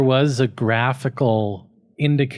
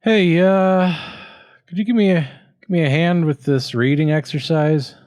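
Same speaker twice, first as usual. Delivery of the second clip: higher, sulky put-on student voice; sullen student; 5 semitones higher than usual. Student asks teacher for reading help, sullen. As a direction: whine it like a reluctant kid.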